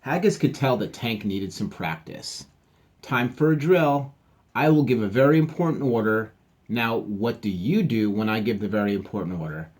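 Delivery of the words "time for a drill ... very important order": drill captain. Acted. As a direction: run the crew through a drill.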